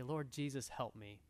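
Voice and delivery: soft, low, humble plea to God; a hint of a quiet earnest prayer; whisper-soft cry for help from the Lord; pleading prayer. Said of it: "you just cry out to God".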